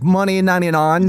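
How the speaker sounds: quick fake Italian lilt; Scottish attempt turned Italian; mock Italian accent; Italian-sounding accent. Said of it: "He's Italian now".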